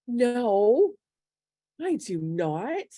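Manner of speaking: tearful protest. Retold or imitated. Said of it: "I just start bursting into tears".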